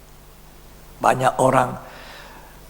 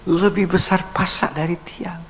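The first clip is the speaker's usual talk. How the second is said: whispered proverb; 4 semitones higher than usual. Real, not acted. Completing the proverb.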